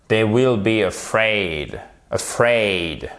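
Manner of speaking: "afraid" stressed on FRAID, drawn out; slow, falling "afraid" with weight on the second syllable. Shown as a demonstration. Teacher showing learners the tonic accent, second-syllable stress. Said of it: "sur la seconde syllabe".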